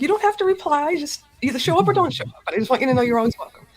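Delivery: lightly gushing welcome, high and quick; mock sweet host voice. Host playfully quoting her own welcome email, mock sweet and quick. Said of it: "I'm like".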